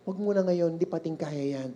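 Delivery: very soft, hushed parent voice; hushing mother. Acted. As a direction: shush a child under your breath. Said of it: "Sabi ng nanay, "Shh".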